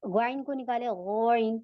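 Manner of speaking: ग्वाइन with a dry back-of-tongue gh; dry throaty ghain. Shown as a demonstration. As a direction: say ग्वाइन heavy, from the soft palate. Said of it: "यहाँ पे कोई तरी नहीं होती".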